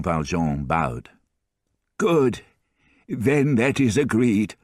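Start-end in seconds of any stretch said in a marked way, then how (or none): 2.0-4.5 a higher, slow voice for the doting grandfather; higher old grandfather voice, tender and teasing; fond old grandfather. A narrator's reading. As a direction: play the kindly old man, pleased with himself, slowly.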